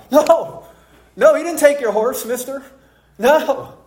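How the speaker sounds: put-on high, pleading little boy voice; terrified child. Six-year-old begging the cowboy not to blame dad, terrified and high. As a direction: squeak out the denial like a scared kid. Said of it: "And I was terrified".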